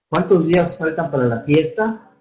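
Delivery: "¿Cuántos días faltan para la fiesta?" with a rising question tune; question intonation. Shown as a demonstration. Teacher to online class, demonstrating question intonation. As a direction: ask it as a clear question, with the tune rising at the end. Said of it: "tenemos que darle esa entonación".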